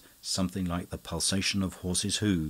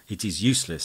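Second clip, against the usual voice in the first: trembling; 4 dB louder, faster than usual. Acted. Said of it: "who was trembling violently".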